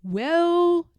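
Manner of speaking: a warm divine blessing; voice of God. Acted. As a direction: commend her proudly. God praises Harriet.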